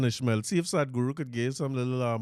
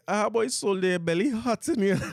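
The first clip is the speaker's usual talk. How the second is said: slow, higher, laughing mockery; laughing tease; 7 semitones higher than usual. Partner teasing the betrayed friend, laughing. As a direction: tease him while laughing. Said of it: "they go say".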